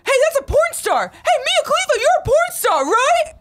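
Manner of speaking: high shouted heckle from afar; yelling. Retold or imitated. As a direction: yell it across the street. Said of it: "just yelling".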